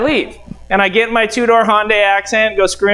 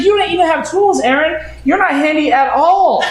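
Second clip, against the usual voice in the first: imitating wife; 6 semitones higher than usual. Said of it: "she's like".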